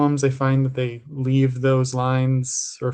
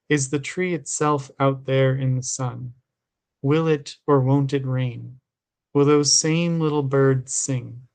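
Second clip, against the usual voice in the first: measured recital in short, separate phrases; understated poetry-reading cadence; poem reading. A narrator's reading. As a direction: read the poem evenly, line by line. Reads a poem aloud.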